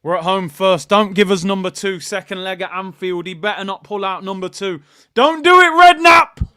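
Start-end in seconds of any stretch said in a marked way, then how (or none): 5.1-6.5 loud, high, desperate plea; real tense outburst; urgent shout. Real, not acted. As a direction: yell at the screen to stop him. Pleading live during the cup draw.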